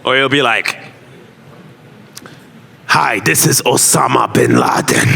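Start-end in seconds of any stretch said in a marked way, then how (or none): 2.9-5.1 the same low bad-guy voice, lightly done; villain voice. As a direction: announce yourself like a movie villain. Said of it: "I only got one villain voice".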